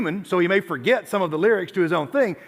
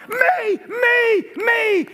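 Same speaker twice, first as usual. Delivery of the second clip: high, shouted "me, me, me"; excited girl; 13 semitones higher, much slower than usual. Retold or imitated. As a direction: play the girl leaping up, squealing. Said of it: "she was like".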